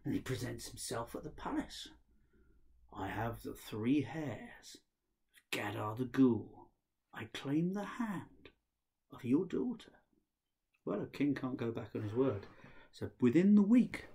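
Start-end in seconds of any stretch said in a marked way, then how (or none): 2.9-9.9 solemn claim. Acted. Ahmed claims daughter slowly.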